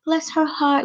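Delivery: high, squeaky mock gush. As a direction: coo it high like you're overcome with sympathy. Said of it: "makes me gush up and be like".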